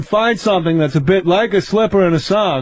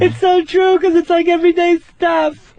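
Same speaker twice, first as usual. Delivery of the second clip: white lady impression; 9 semitones higher than usual. Comic imitating a white lady fan gushing over Seinfeld. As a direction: gush like a rich white lady laughing along. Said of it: "Now, that's my impression of a white lady".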